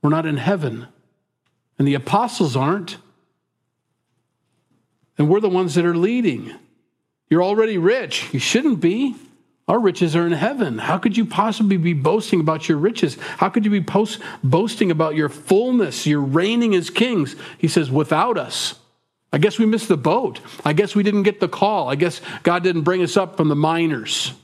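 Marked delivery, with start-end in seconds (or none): 0.0-17.3 mocking disbelief, pitch climbing higher; sarcastic. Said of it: "Paul's being sarcastic". 17.9-24.3 sarcastic. Retold or imitated. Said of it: "He's being sarcastic".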